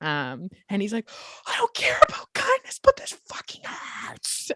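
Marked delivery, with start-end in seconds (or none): 1.5-4.5 breathy, whispered, pained, agonized cry. Voicing a forest gnome hit by necrotic damage: screaming in pain. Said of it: "he's just screaming in pain".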